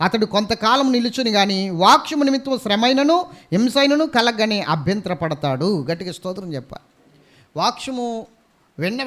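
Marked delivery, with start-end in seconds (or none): 0.1-5.7 louder, proclaiming the verse; preacher booming the Bible verse to the church; preaching scripture. Acted. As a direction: read it out like a pulpit proclamation. Reads scripture loudly.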